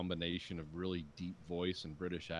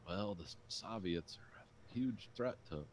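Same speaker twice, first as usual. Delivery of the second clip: slow, softer mock presidential voice; Ronald Reagan; 5 dB quieter than usual. Showing how the narrator voices Reagan, mock Reagan impression. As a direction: ease into a slow Midwestern impression. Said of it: "Ronald Reagan was, was from the Midwest".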